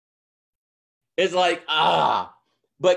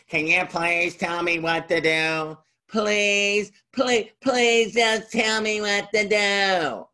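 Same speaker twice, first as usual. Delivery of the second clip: pleading; 3 semitones higher, slower than usual. Retold or imitated. Reenacted begging for help.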